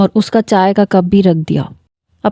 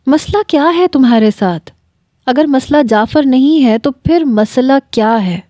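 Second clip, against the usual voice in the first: serious angry questioning; 3 semitones higher than usual. Acted. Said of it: "کافی سنجیدگی اور غصے سے پوچھ رہا تھا".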